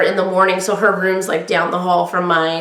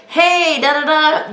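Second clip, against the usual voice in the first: projecting voice; 7 semitones higher, slower than usual. Shown as a demonstration. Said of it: "you may think I'm yelling, but I project".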